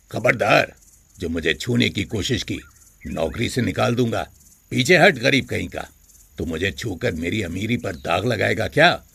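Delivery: a hint of a haughty master; contemptuous master. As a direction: push the servant away with contempt. Master threatens touching servant.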